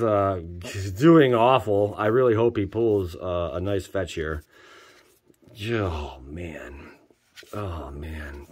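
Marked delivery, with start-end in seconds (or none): 5.7-8.5 breathy whisper of disappointment; whispered dismay. Real, not acted. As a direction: whisper it under your breath. Dismay at a bad pull.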